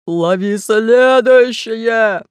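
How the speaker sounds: high, loud, very slow cry; a fat pirate's thin squeaky shout; thin-voiced yell. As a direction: shriek it in a thin fat man's voice. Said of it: "закричал тонким голосом толстяк".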